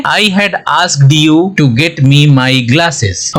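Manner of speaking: very slow, careful dictation; teacher dictating an English example sentence. Shown as a demonstration. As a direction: read it word by word for learners. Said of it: "इसे sentence बनाते हैं".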